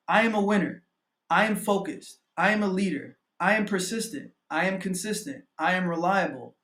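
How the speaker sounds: measured, declarative list of affirmations; affirmation reading. Real, not acted. Coach reading own affirmations to viewers, with conviction. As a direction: state each line with conviction. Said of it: "I'm gonna read my affirmations".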